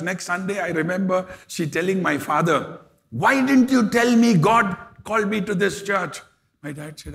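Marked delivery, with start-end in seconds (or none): 3.1-6.2 a raised, higher question with mild mock indignation; raised indignant question. Woman asking the pastor why he hid this, in a mildly raised voice. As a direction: ask it louder and higher, half-accusing.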